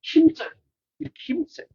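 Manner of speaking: 힘써요 thrown up high; emphatic exhortation. Shown as a demonstration. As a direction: urge them to 힘써요, rising hard. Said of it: "이렇게 하라고?".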